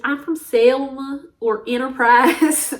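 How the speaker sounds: slow, put-on country accent; exaggerated Alabama country accent. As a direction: drawl it in a fake country accent. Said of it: "talking in a country accent".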